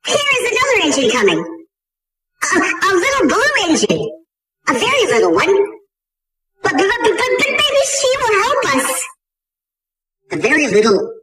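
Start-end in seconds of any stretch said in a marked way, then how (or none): 0.1-9.0 high, eager clown voice; clown calling out. A narrator's reading. Toy clown calling out to the blue engine, high and eager. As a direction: call out in hopeful excitement. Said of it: "the little clown called out".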